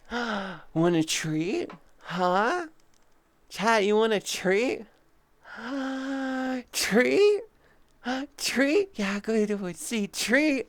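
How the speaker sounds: high, excited doggy voice; talking to a dog. Pretend. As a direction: tease it like offering a puppy a treat. Mock-offering treats to chat like dogs.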